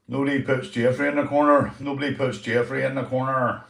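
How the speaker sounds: puppet voice. Acted. Puppet quotes film line.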